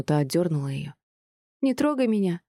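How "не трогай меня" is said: put-on high, childish, offended, stress on трогай; a small girl pulling away from her father; hurt little girl. A narrator's reading. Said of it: "обиженно буркнула его маленькая девочка". (обиженная девочка отталкивает отца)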